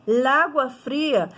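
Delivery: LÁGUA fria, article fused into the noun; run-together words. Shown as a demonstration. Teacher showing students the forbidden cacophony, LÁGUA run together. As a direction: say LÁGUA as one single word, no break. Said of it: "acabaria virando uma única palavra".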